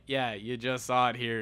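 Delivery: slow, mocking repeat of "you just saw it here" with a dragged "saw"; sarcastic echo. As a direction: throw his own words back at him, drawn out. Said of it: "And I'm like".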